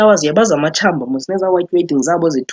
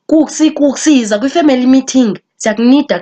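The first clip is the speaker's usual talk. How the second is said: phone voice; 6 semitones higher, 4 dB louder than usual. Retold or imitated. Relative calling on phone.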